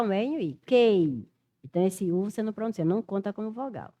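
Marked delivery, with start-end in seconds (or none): 0.7-1.3 "Kei" as K, E and I glided into one syllable; sounded-out syllable. Shown as a demonstration. Teacher demonstrating the sounds in the word, "Kei" with the U left silent. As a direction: say "Kei" clearly, hard K and no U. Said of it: "Você pronuncia um K".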